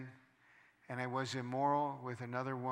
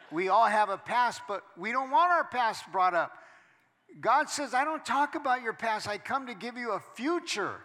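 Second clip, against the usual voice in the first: louder, higher preacher's call to the crowd; preaching at full force; 6 semitones higher, 6 dB louder than usual. Acted. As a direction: lift the room with praise. Preaching to the congregation.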